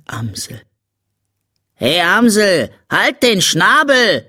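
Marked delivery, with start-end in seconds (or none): 1.8-4.3 put-on little girl's high, cross yell; kindlicher Schrei. A narrator's reading. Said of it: "schrie das kleine Mädchen". (hohes, gereiztes Mädchengeschrei)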